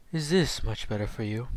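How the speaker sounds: deep, calm, whispery voice; low and entrancing, breathy; deep calm Naruto voice. Shown as a demonstration. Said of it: "imagine him having a fucking deep voice".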